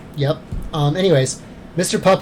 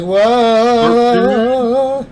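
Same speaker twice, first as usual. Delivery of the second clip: surprised whoa; 8 semitones higher, 5 dB louder than usual. Retold or imitated. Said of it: "he's probably just like".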